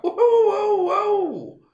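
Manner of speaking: high, laughing whoa; laughing protest. Retold or imitated. To his boss on the phone, laughing protest, high. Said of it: "And I'm like".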